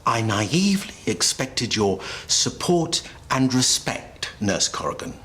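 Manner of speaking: feigned outrage. Pretend. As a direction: play the wronged superior with dramatic pauses. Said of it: "Positively Oscar material".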